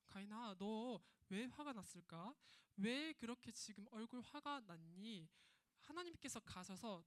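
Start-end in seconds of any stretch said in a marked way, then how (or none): 0.1-5.3 gentle asking. Acted. God gently asks Cain.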